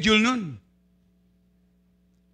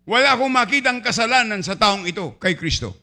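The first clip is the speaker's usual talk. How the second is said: Pilate addressing the crowd; 3 semitones higher, 5 dB louder than usual. Acted. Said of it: "Ang sabi ni Gobernador Pilato".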